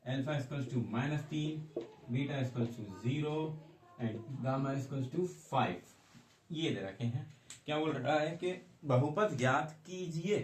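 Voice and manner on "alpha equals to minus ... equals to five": slow, word-by-word dictation pace. Shown as a demonstration. Teacher dictates the roots slowly to students copying them. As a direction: give students time to write it down.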